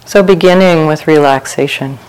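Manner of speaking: unhurried meditation guidance with long pauses; guided meditation. Real, not acted. Teacher leading retreat sitters through open awareness, calm guided meditation. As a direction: guide listeners gently into relaxation, phrase by phrase.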